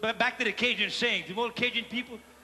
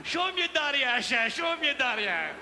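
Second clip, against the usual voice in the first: excited shout; 8 semitones higher, slower than usual. Retold or imitated. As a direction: yell it, thrilled at the gorilla. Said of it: "He goes".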